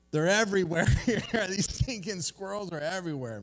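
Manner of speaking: loud, high retold exclamation with a laugh; exasperated outburst. Golfer fed up with squirrel photos tells the Australian, exasperated mock outburst.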